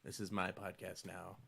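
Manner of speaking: slow, low ghostly voice fading to a whisper. Pretend. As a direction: breathe it out like a ghost. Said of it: "in a ghostly fashion".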